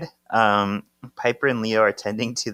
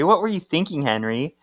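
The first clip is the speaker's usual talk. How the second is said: mock yell; 6 semitones higher, faster than usual. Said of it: "Paige is yelling at Henry".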